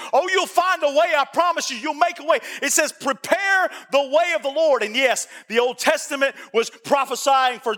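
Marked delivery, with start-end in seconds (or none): 0.1-4.8 urgent exhortation stretching into scripture; impassioned sermon cadence; fervent preaching. Real, not acted. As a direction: promise it like a preacher, then draw out the verse. Preacher exhorts, then quotes scripture.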